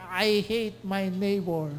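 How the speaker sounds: slow, mock grumbling neighbor; mock hater. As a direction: sneer it out slowly as the bad neighbor. Mock voice of a bad Samaritan. (mabagal na panggagaya sa mapait na kapitbahay)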